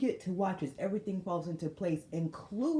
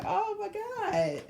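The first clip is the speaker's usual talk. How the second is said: laughing slowly; much slower than usual. Real, not acted. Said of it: "this shit gonna tickle me".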